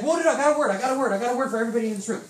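high, loud, rushed outburst; acted-out urgent excitement; eager interruption. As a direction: jump in fast, bursting to share. Imitates man interrupting with news.

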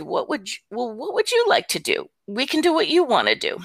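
coaxing grandma, retold. Grandma asking overwhelmed granddaughter what she'd like, coaxing. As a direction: coax an upset child with a lifted voice.

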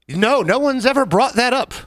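high, slow deadpan sarcasm; sarcastic. Real, not acted. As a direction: lay the sarcasm on slowly. Sarcastic reply to question.

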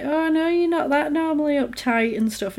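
lightly mimicked entitled guy; mocking creep. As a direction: sneer it like a pushy boy. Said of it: "he's like".

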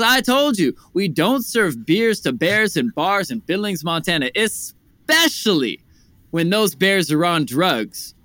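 high, loud, hammed-up exasperation; mock exasperated refusal. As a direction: build the punchline as the fed-up bartender.

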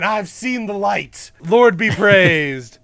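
slow, drawn-out proclamation; mock religious fervor. Podcaster voicing Moses falling before the guards, mock-devout proclaiming. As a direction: stretch it out like a hammed-up revival convert.

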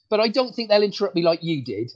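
teasing through a laugh; ribbing the host with a laugh; laughing tease. Real, not acted. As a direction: chuckle the jab at the host.

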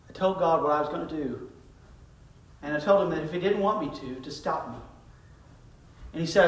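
softly voiced retelling of a shaken young man; a quiet, lightly acted tearful confession; hushed young man's confession. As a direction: drop the voice as he recalls it. Suicidal young man recounts, crying.

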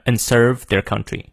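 "and" as a light "n" before "serve"; AND reduced to N. Shown as a demonstration. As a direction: barely say "and", just an "n". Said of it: "直接发个N的发音就可以了". ("and"轻读成N)

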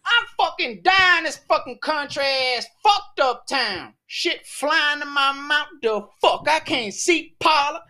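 mock panic yell after swallowing a fly; reporter loses it. Reenacting the reporter choking on a fly, hammed-up screaming meltdown. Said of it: "he just goes completely ghetto".

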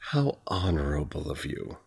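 lightly sneering, honorable spat out like a burning bite; spat out, mocking. A narrator's reading. Curate mocking Shinobu's honor, lightly spat-out sneer. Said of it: "Cook said honorable like it was a hot bite".

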